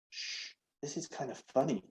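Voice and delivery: telepathic voice. Acted. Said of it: "Nooks said telepathically".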